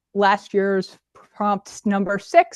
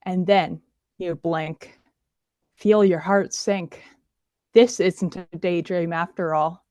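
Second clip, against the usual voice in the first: poetry reading. Acted. Performs her spooky poem.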